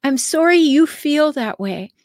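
dismissive fake-sorry tone; a hint of smug mock regret; mock faux apology. Shown as a demonstration. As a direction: say it like a backhanded apology. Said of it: "those are passive aggressive".

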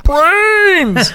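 high moaning zombie cry. Acted. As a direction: groan it like a zombie. Zombie joke after zombie story.

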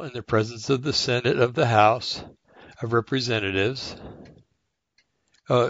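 measured reading of legal text, pausing at the commas; careful slow reading. Real, not acted. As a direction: read it out carefully, phrase by phrase. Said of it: "I'll try to read it a little slowly".

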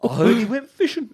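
hammed-up cartoon bear accent; badly faked giant's accent, half laughing; Hagrid. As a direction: say it like Yogi Bear. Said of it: "Hagrid accent sounded heaps like Yogi Bear".

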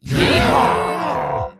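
shouted yeehaw. Acted. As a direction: whoop it out like a cowboy. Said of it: "Can we get a yeehaw from everyone?".

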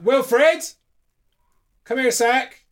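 high sing-song call with the second syllable of Wilfred hit hard. Real, not acted. Dad calling his son Wilfred to the microphone, high sing-song call. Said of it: "that's how you have to shout your kid's name".

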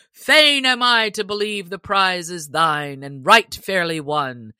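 a hint of joyful sheriff; joyous sheriff. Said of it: "cried the sheriff right joyously".

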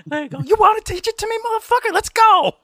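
high, loud mock street-tough voice; hammed-up tough guy picking a fight; tough guy challenge. Tough guy squaring up to teacher.

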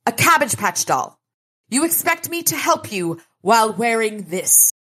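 high, tiny sprite voice; small indignant sprite squeak. Acted. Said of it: "asked in a tiny voice".

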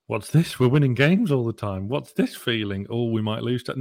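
lightly acted disbelief at good fortune; bewildered fans. Fan base unsure about winning games, bewildered.

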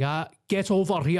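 a hint of a Scot failing to play Russian; Sean Connery. Host mocks the actor's failed Russian accent, light impression. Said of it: "He was supposed to be Russian".

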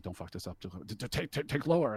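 hushed, half-hearted imitation of crying; retold tearful plea. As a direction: plead under your breath, stammering.

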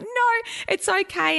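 high, slow soothing mock voice; comforting husband. Daniel comforting his crying wife, slow high mock soothing. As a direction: soothe her gently, a bit hammed up. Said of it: "he's like".

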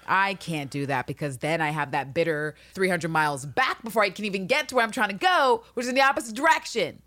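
hammed-up flat-out no; sassy refusal. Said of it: "She's like".

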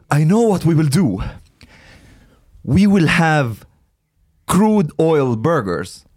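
mock excited pitch to the team; super excited. Imitating a friend unveiling a burger idea at a meeting, super excited. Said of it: "He's, like, super excited about it".

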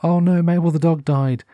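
high, sudden dismay at sad news. Retold or imitated. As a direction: gasp out the bad news, a touch shocked. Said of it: "I got so sad".

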